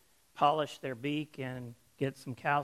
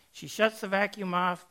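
ordinary talk

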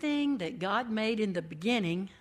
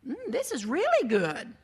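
"really" stretched, louder and delighted; 4 semitones higher, 5 dB louder than usual. Acted. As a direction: savor "really good" with delight. Eve tastes the fruit.

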